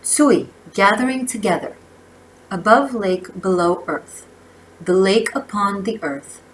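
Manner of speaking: measured oracle-card reading, phrase by phrase; reading aloud. Real, not acted. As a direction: read the card's message out with emphasis. Reads I Ching text aloud.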